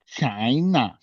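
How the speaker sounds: China with a clear ch sound; China said properly. Shown as a demonstration. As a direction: say China as chai-nuh. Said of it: "Can you say China, please?".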